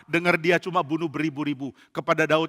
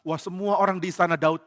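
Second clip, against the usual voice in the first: usual speaking voice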